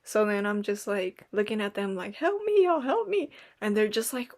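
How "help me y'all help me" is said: high mock-desperate plea for help; pleading for help. Teen begging her family for help ordering, mock-desperate. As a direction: beg them, half joking, to rescue you.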